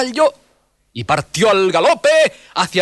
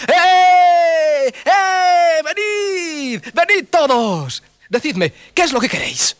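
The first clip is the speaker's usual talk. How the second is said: high loud call to the village; shouting; 5 dB louder, much slower than usual. Acted. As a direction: call everyone to come, high. (Malián grita a todo el pueblo)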